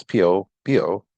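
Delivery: P O B O squeezed into two beats, pee-oh, bee-oh; P O, then B O, each pair blended into one beat; two syllables. Shown as a demonstration. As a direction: say P O B O as two quick chunks. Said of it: "two syllables".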